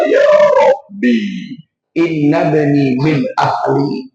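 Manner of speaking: slow, tearful cry to God; tearful prayer. Retold or imitated. Noah weeps over his son, praying slowly and tearfully. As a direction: plead to the Lord through tears. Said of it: "dengan air mata".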